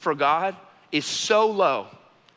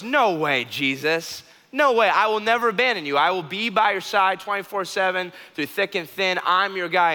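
loud, insistent, much higher protest; fervent vow; 4 semitones higher, 5 dB louder than usual. Acted. Peter vowing loudly to Jesus never to leave him, high and insistent. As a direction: swear loyalty with rising fervour.

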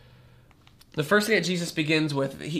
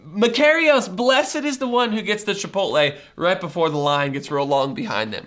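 playful, raised exclamation; mock congratulation; 4 dB louder than usual. Pastor mimicking a friend's envious cheer at Chipotle. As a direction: cheer someone's lucky timing. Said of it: "Like we might say".

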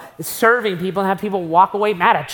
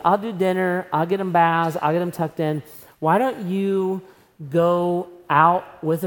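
gentle caring husband; 3 semitones lower than usual. Pretend. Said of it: "looked at your wife and said".

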